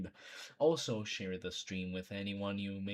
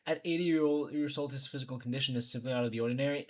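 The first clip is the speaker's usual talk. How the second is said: rushed reading; 3 semitones higher, 3 dB louder, much faster than usual. Shown as a demonstration. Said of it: "that could be implemented so many different ways".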